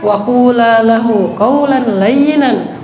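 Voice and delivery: slow, measured Arabic recitation; unhurried scripture chant; Quran recitation. Acted. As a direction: recite it slowly and reverently.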